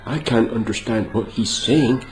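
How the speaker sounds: mimicking an American's complaint in a light accent; a hint of a whiny American voice; mock American accent. Mocking Americans who say they can't understand him, light American accent. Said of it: "these Americans going".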